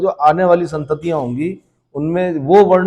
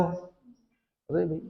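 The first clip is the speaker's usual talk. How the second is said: slow, soft, drawn-out Lucknow-style अरे भाई; Lucknow courtesy; 15 dB quieter, much slower than usual. Retold or imitated. Teacher imitating how people in Lucknow talk, soft and drawn out. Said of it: "Lucknow चले जाओ".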